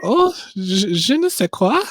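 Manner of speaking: hammed-up high French maid accent; bad French accent. Co-host playing a French maid for a trucker fantasy, hammed-up French accent. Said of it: "my worst French accent".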